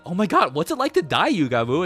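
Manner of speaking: high, loud and thrilled; giddy excited gush. Retold or imitated. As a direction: gush at him like it's exciting news. Darumi gushes at bloody boy.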